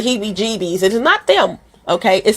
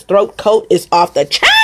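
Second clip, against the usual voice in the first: excited shout. Real, not acted. Hyping the tea.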